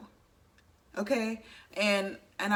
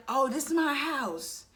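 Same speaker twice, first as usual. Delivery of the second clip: mock parent; 6 semitones higher, slower than usual. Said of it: "what accent I just pulled".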